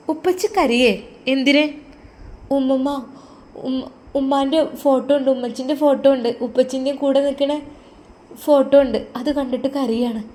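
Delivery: put-on a small girl worried for her dad; little girl. Daughter speaks.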